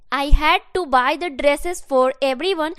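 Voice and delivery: slow, even, clearly spaced words; teacher repeating the model sentence slowly; slow dictation. Shown as a demonstration. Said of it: "मुझे सबके लिए कपड़ा खरीदना पड़ा।".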